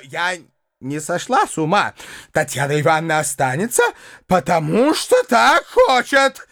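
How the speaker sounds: high-pitched indignant harangue; furious tirade. A narrator's reading. Widow raging at the uncle, high indignant harangue.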